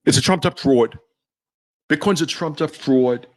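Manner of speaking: put-on lightly done New York tough-guy accent; a hint of a gruff New York Wall Street boss; Jamie Dimon as New York gangster. Mocking Jamie Dimon dismissing Bitcoin, light New York gangster accent. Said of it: "he always sounds like a, a New York gangster".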